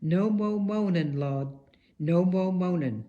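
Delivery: lightly voiced Southern nun, unhurried; Southern accent. Speaker quoting a sister's Southern motto, light Southern accent. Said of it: "a sister with a pronounced Southern accent".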